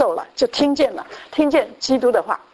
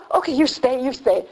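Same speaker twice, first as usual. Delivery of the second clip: lightly voiced doctor; slower than usual.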